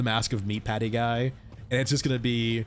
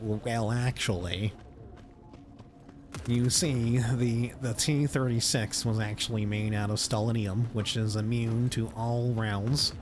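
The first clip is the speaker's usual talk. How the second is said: lightly nasal know-it-all nerd voice. Acted. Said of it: "helps out my nerd voice".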